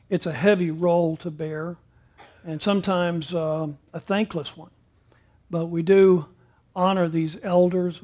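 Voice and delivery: earnest, steady prayer voice. Acted. Pastor praying for the elders, earnest and steady. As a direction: lead the congregation in prayer. Pastor prays after sermon.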